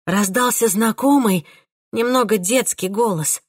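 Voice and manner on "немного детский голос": ordinary delivery, nothing marked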